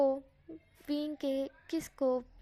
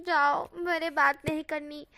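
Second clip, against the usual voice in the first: embarrassed pout; 2 semitones higher, 6 dB louder, slower than usual. Acted. Embarrassed Wang pouting.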